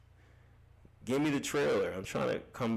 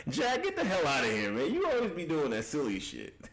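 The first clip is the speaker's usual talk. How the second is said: higher, laughing get outta here; laughing scold; 6 semitones higher than usual. Real, not acted. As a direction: playfully shoo him away. Mock scolding a chatter.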